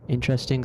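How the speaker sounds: "Interesting" stressed on IN; first-syllable stress. Shown as a demonstration. Comparing two similar words, "Interesting" stressed on IN. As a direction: say "Interesting" as IN-tress-ting. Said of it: "stresses the first one".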